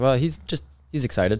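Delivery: ordinary delivery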